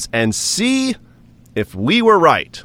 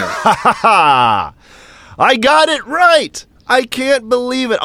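excited; 11 semitones higher, much slower than usual. Real, not acted. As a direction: squeal with joy at winning. Reacting to correct prediction.

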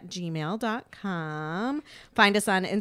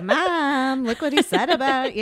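tattling sister; 5 semitones higher, 6 dB louder than usual. Retold or imitated. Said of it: "She's like".

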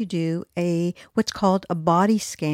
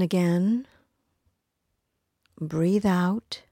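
calm, unhurried body-scan guidance with long pauses; guided meditation. Real, not acted. Podcast host leading listeners through a body scan, calm guided meditation. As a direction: ease listeners gently through each breath and body part.

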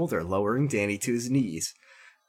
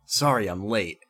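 slightly lowered, easier character voice; less horrible voice; 4 semitones lower than usual. A narrator's reading. Chris apologises to Danny, less horrible voice. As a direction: drop the growl, keep it a little low. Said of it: "said Chris in a better, less horrible voice".

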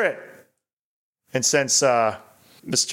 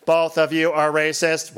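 robot voice. Acted. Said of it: "to be read in an eighties robot voice".

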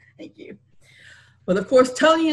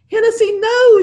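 higher, louder cry of alarm; 14 semitones higher, 9 dB louder than usual. A narrator's reading. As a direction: shout it to stop him. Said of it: "she cried".

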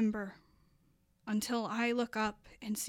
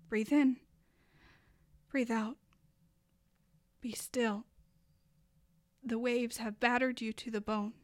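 calm yourself like a friend would; self-soothing. Acted. Speaking tenderly to herself after the wave.

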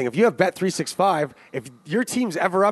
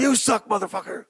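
swearing; 4 semitones higher than usual. Retold or imitated. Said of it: "and swearing".

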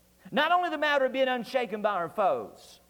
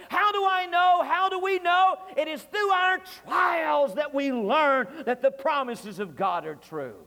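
rhetorical shout; 4 semitones higher than usual. Real, not acted. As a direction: call out to the church. Preacher's rising rhetorical climax.

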